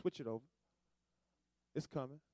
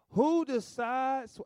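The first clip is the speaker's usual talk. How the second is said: slow God voice; 7 semitones higher, 5 dB louder, much slower than usual. Acted. Voicing God's question slowly.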